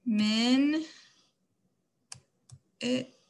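minute split slowly into Min and It; syllable by syllable. Shown as a demonstration. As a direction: say Min, pause, then It. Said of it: "mark our vowels".

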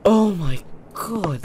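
high, slow cry of shock; overwhelmed wail. Real, not acted. Gamer overwhelmed after a scare, high wail. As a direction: wail it out slowly.

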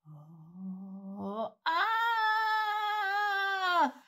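sudden high loud frightened cry; startled shepherds cry out; frightened shout. Acted. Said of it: "they all started to shout".

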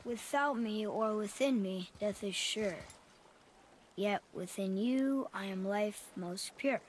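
reading a riddle aloud. Acted. Boy to father, reciting the rune's riddle slowly. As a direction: read the inscription slowly, word by word.

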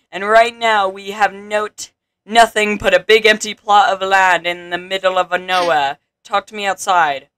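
grand, mildly theatrical proclamation; a hint of pompous civic address; lightly voiced town advisor. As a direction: read it as a game advisor's speech.

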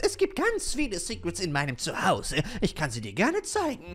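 proud little fairy showing off her home; lightly voiced fairy. Fairy character answers the player.

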